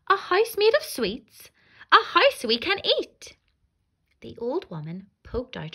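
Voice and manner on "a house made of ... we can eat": high, louder and delighted; excited children. Acted. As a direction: gasp with childish joy. Hungry children find gingerbread house.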